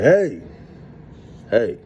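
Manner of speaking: loud high call to stop them; shouting hey. Retold or imitated. Calling out to the men in the shower, loud high shout. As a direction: yell out to freeze the room.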